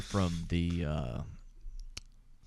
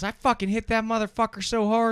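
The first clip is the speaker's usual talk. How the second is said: squeaky, much higher and louder uncle impression; high-pitched voice; 7 dB louder than usual. Uncle picking a college football fight, squeaky high voice. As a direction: imitate a tough guy with a tiny squeaky voice. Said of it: "He goes".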